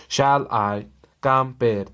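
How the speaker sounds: "shall I", pause, "compare", each a separate pair; "shall I / compare" spoken foot by foot; two-beat feet. Shown as a demonstration. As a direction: split "shall I compare" into two-syllable beats. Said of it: "मतलब दो आवाज़ें निकलती है".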